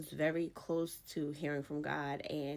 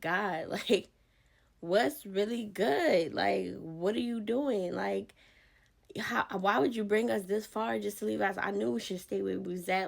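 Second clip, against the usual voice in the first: Joshua complaining to God; 3 semitones higher, 5 dB louder than usual. Retold or imitated. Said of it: "Joshua was like".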